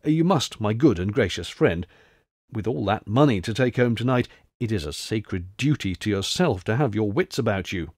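a hint of hushed, earnest counsel; confidential advice. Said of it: "in mysteriously confidential tones".

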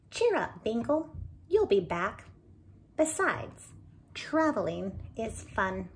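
put-on loud, bright encouraging old lady; cheering Maybelle. Maybelle cheers up Binkle before he flies, loudly encouraging. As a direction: lift the sad little bird's spirits.

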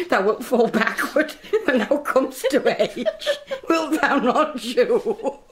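high, laughing through the punchline; helpless laughter at the baby story. Acted. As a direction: giggle the punchline out. Nurse laughing retelling the joke.

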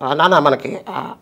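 lightly voiced fond greetings; a hint of the master greeting everyone; affectionate rambling impression; imitating Rakesh Master. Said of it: "అది Rakesh master గారిది".

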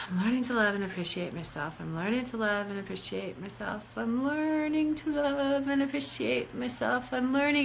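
rote, detached recital, trailing away softly; disconnected. Shown as a demonstration. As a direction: rattle it off without meaning it. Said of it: "You see the disconnection there?".

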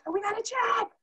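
high, squealing mom overjoyed; mother shrieking over the contract letter, high and excited; mom's excited scream. Retold or imitated. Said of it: "all I hear her is screaming".

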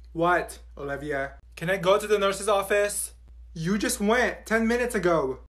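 ordinary talk

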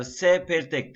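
"S" as "se" with tongue between teeth; lisped S. Shown as a demonstration. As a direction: lisp the letter "S" like English th in "think". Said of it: "Dilimizi dişlerimizin arasına koyarak söylüyoruz".

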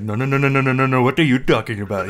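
frantic repeated no's; hammed-up flustered denial; mock angry voice. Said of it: "I do that voice".

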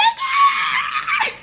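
high squealing shriek of joy; excited scream. Retold or imitated. Retelling the packaging news, she squeals with joy. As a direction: squeal like the box just arrived.

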